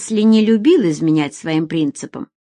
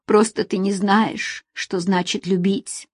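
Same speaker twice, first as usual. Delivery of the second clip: sobbing. Acted. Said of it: "всхлипывала женщина".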